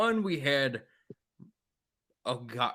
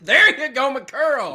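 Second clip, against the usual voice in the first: high, loud laughing correction; 9 semitones higher, 8 dB louder than usual. Real, not acted. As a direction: laugh as you toss out the name. Laughing at name butchering.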